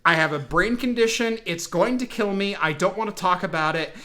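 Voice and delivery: lightly acted stoic delivery; mildly stoic, matter-of-fact announcement; stoic Picard. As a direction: state it with understated stoicism. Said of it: "like, stoic Picard".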